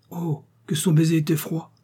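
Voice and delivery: put-on high-pitched little boy's exclamation; exclaiming. A narrator's reading. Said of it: "s'écria Pivoine".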